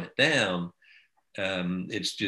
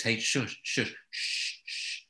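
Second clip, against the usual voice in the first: soft shushing whisper to a dog; 6 dB quieter, slower than usual. Shown as a demonstration. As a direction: hush it under your breath. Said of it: "and whisper".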